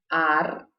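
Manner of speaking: Argentino with a throaty jota; jota demo. Shown as a demonstration. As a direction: stress the throat sound in Argentino. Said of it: "Vocês estão conseguindo fazer".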